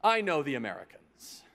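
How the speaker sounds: put-on slow, grand English accent, the last line drawn out; Churchill impression. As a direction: play a lightly voiced Churchill, calm and sure. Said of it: "He says".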